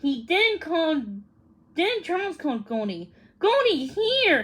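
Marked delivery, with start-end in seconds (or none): 3.4-4.4 smiling. A narrator's reading. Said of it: "he said with a big smile".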